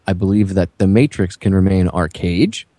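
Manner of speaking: deliberate reading with pauses between phrases; measured dramatic reading. Acted. Reading Neo's original phone speech to listeners, measured and deliberate. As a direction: read it out as a solemn speech, phrase by phrase. Reads out film's closing speech.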